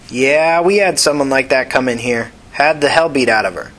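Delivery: a tired ER nurse, no nonsense. Acted.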